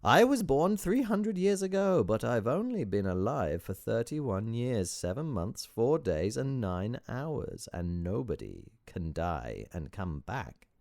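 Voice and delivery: high, loud opening settling into slow finish; gleeful foreign-accented sage. Acted. Sage revealing his age to visitor, gleeful and theatrical. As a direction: revel in the riddle, starting high.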